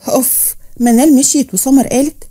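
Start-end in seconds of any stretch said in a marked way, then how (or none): 0.1-0.6 short acted "ugh" of irritation; exasperated huff. Woman fed up with the newcomer, exasperated huff. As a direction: puff out your annoyance briefly. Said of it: "بصت لها بغيظ".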